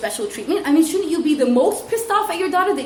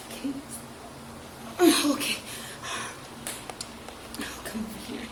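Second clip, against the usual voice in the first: lightly voiced child; 12 dB quieter than usual. Acting out child getting bag.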